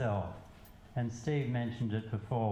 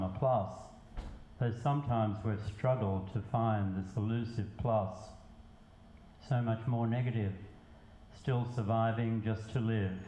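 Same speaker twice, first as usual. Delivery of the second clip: measured poetry reading with pauses between lines; spoken verse, evenly paced; poem recitation. Acted. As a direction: recite it line by line, letting each phrase land. Recites own poem to audience.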